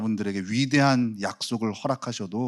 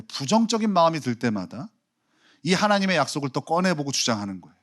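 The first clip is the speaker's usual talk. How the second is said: usual speaking voice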